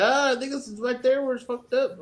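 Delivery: a hint of a know-it-all worker; retold maintenance man.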